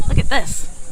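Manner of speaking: ordinary talk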